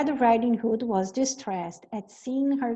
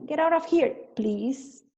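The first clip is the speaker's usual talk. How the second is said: still rude, with please; 5 semitones higher than usual. Shown as a demonstration. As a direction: command it, then tack on please. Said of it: "põe um please depois".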